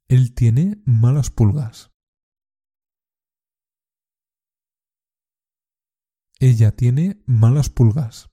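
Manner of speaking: slow, careful repeat-after-me sentences; deliberate teacher's drill reading; slow model drill. Shown as a demonstration. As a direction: say each line clearly for learners to copy. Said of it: "Repite después de mí. Intenta copiar la pronunciación y la entonación".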